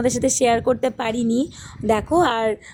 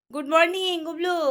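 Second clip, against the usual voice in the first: high, lilting hello; 7 semitones higher than usual. Real, not acted. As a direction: greet a sleepy little one in a high voice. Mother greets child waking up.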